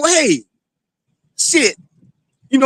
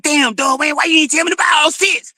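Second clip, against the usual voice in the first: imitating buddy's yell; 9 semitones higher than usual. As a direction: replay the buddy's regret, half-shouted. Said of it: "He said".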